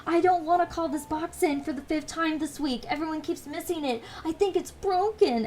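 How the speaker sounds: high sweet customer service voice; chirpy service worker. Retold or imitated. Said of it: "my customer support voice".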